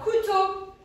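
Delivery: drawn-out couteau, loud; slow, stretched word. Shown as a demonstration. Teacher to class: slowly stretching couteau. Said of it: "teacher stretching the word".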